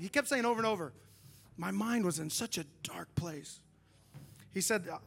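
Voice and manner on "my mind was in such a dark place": hushed. Retold or imitated. Friend repeats his dark words.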